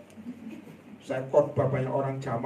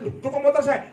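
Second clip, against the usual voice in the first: mock surprise; 9 semitones higher, 3 dB louder than usual. Sees thief riding his motorbike.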